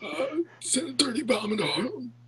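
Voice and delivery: whispered dirty bomb line; hushed confession. Acted. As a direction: say it like a secret. Original whispered take.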